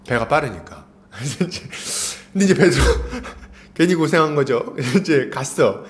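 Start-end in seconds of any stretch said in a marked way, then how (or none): none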